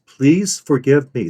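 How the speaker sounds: "Please forgive me" slow, each word distinct; weight PLEASE, FORGIVE and ME; slowly spelled-out "Please forgive me"; stressed plea. Shown as a demonstration. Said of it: "those three words".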